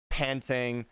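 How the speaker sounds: a light huffing sigh; mock panting. Imitating Ulrich stepping out of the scanner, mock panting. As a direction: breathe out like a tired fighter. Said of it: "Ulrich would pop his head out".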